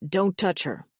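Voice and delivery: understated possessive warning. A narrator's reading. New mate warns brother away from her, possessive. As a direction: warn them off, controlled. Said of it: "there is a possessive hunger written on his face".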